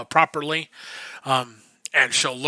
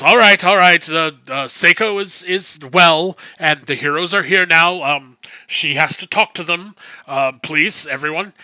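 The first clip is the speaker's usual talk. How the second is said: calling out; 3 semitones higher than usual. Acted. Akano quieting the crowd at the door, calling out. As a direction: shoo the crowd back.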